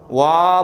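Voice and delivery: "와"를 길게 끌어 "아"로 끝내기; "오아"처럼 시작해 "아"로 남는 "와". Shown as a demonstration. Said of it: "뭐로 끝나요?". ("와아" 하고 또렷하게 늘이기)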